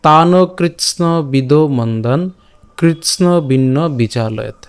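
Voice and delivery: slow, measured verse reading with drawn-out vowels; shloka recitation. Shown as a demonstration. Teacher presenting today's shloka to learners, slow recitation. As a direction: recite the verse phrase by phrase, slowly. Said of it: "আজকের শ্লোকটি হলো".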